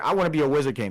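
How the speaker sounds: mild, restrained shouting. Retelling how Asta kept yelling his goal: imitating Asta yelling. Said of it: "he's yelling over here".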